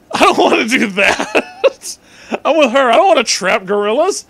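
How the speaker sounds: high, loud line broken by giggles; barely holding it together; reading while cracking up; laughing through it. Real, not acted.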